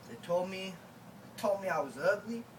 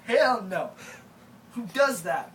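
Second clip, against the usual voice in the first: indignant denial; 6 dB louder, slower than usual. Retold or imitated. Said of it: "I was like".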